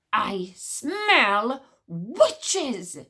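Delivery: very slow, booming doomsday cry; voice of doom. Acted. Witch smeller warns the courtyard, slow voice of doom. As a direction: drag it out like a prophecy. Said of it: "cried ... in a voice of doom".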